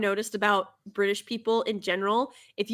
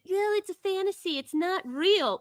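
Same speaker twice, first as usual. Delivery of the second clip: mocking excuse; 8 semitones higher than usual. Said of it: "their cop-out is always the same".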